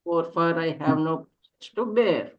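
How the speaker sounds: lyrical, longing poem reading; yearning poem recitation. Acted. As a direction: recite it like a lament to a lost love. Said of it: "can we call upon you to read a poem".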